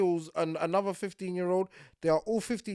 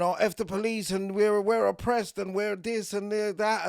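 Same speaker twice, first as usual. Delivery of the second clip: mocking quote; 5 semitones higher than usual.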